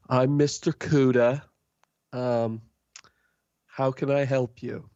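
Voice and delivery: a strange fish-man welcoming customers; Mister Kuda. Acted. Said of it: "he looks and he goes".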